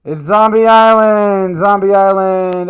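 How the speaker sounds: loud, slow, spooky title reveal; excited announcement. Acted. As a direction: announce it like a movie trailer.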